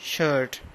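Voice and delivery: शर्ट said "shut", no r sound at all; British silent r. Shown as a demonstration. Teacher to class, demoing शर्ट without the r. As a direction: drop the r in शर्ट, British style. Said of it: "British English में आर silent हो जाएगा".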